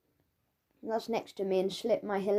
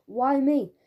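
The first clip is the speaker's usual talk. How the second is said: dismayed protest; 5 semitones higher, 7 dB louder than usual. Acted. Tom's dismayed inner protest.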